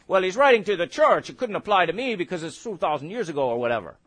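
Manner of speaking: quick, offhand brush-off; mock dismissive listener. Preacher mimicking a listener who dismisses scripture, offhand and quick. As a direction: shrug the Bible off like a skeptic.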